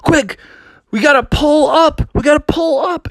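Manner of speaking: hurried cartoon alarm; high urgent cub voice. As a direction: raise it high, urgent and quick. Urgent warning in wagon.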